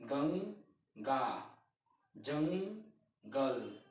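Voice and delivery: गंगा and जंगल stretched out very slowly; teacher stretching the words to show the nasal sound; very slow demo. Shown as a demonstration. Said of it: "उसको हम ऐसे बोल सकते हैं".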